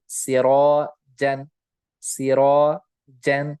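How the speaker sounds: सिराजन slowly, with heavy full रा; heavy sirajan. Shown as a demonstration. Teacher models the heavy alif in सिराजन, slow. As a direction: draw out सिराजन thick. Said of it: "ये रॉ पुर हरफ है".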